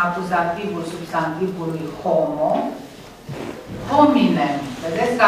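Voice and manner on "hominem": hominem with the stress on HO; first syllable stress. Shown as a demonstration. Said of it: "accentul stă pe prima silabă". (accent pe prima silabă)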